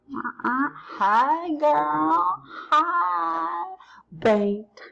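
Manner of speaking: high, sassy flirting voice. Acted. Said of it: "Ryan over there is giving you the eyes".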